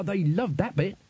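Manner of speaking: high-pitched, eager simple musician; proud battered rocker. Acted. Crash telling the band about their performance, high and proud. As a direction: crow about it in a high, pleased voice.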